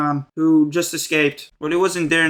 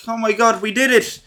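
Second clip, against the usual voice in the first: higher, relieved mock celebration; hammed-up relieved joy, higher pitch; mock relieved cheer; 5 semitones higher than usual. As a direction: cheer like they finally won. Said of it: "walking out so relieved".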